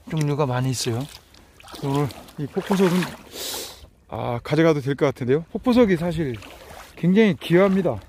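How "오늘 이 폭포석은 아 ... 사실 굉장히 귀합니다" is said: muffled speech behind a mask; talking through a face mask. Real, not acted. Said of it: "제가 마스크를 쓰고 있기 때문에".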